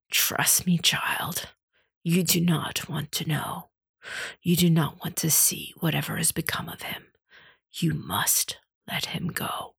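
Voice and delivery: hushed, steadying whisper; soothing an apprentice gently; soft steadying voice. A narrator's reading. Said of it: "then softened".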